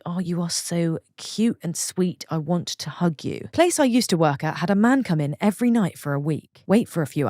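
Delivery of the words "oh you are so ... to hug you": soft, slow cooing to someone cute; tender baby talk; cooing at the old. Shown as a demonstration. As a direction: coo it like you want to hug them. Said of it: "Not like a thing thing, just like".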